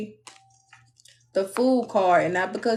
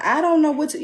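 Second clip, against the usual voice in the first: mock crying; 7 semitones higher, 4 dB louder than usual. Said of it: "Be, be crying".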